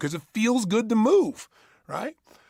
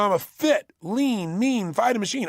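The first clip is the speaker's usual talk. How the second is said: chanted, emphatic; incantation demo; slower than usual. Shown as a demonstration. Coach giving another chant example, emphatic. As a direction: drive each word home. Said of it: "Or, you know".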